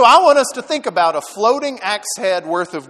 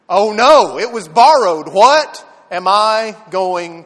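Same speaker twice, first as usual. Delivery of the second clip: mock dismay; 4 dB louder, slower than usual. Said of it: "as he's like".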